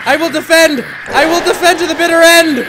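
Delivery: loud, high battle vow; mock-heroic cry. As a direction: proclaim it like a desperate defender. Mock-heroic cry during attack.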